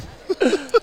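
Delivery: short high burst of laughter. Real, not acted. Bursts out laughing mid-bite.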